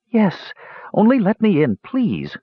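a wren pleading with the mage to open up; pleading bird voice. A narrator's reading. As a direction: beg like a frightened little bird.

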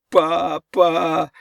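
high, cracked call for help; high wail, voice breaking; breaking, congested cry. A narrator's reading. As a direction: cry out with a cold-choked voice. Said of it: "кричал Ричард срывающимся простуженным голосом".

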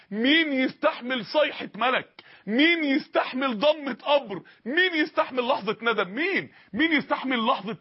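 slow, weighty questions with مين stressed; solemn drawn-out preaching; slow rhetorical questions. Acted. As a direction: lean hard on each مين, slowly.

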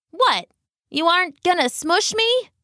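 confused. Acted. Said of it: "he asked, confused".

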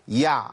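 يع with the ع clipped short and stopped; قطع صوت العين; cut-off ain. Shown as a demonstration. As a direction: stop the sound dead on the ع of يع. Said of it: "ما أقولش يع".

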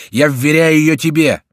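high, loud urgent plea; shouting. A narrator's reading. Bussy entrusts Diana to Remy, high loud shout. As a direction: shout it over the fight. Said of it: "кричал Бюсси".

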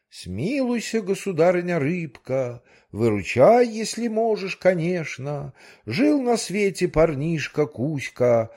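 pleading in verse. Acted. The manager begs the goldfish in verse, sing-song plea. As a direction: recite it like a humble fairy-tale petition.

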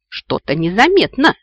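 выше и громче, язвительно; съехидничай, растягивая слова; ехидная бабушка. A narrator's reading. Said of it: "съехидничала бабушка". (громкая язвительная реплика бабушки)

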